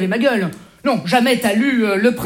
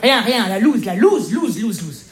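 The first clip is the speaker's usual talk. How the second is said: fading lament; 2 semitones lower, slower than usual. Acted.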